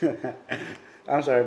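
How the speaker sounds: laughing through an apology; real laugh breaking into words. Real, not acted. Laughs while reading.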